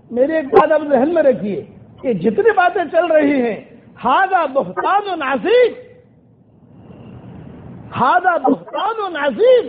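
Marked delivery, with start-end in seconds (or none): 4.0-9.6 slow, emphatic outcry, each word weighed; slow, solemn declaration of outrage; forceful declaration. Retold or imitated. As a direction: proclaim it slowly and firmly, as a protest. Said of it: "یہ جملہ زور سے کہا".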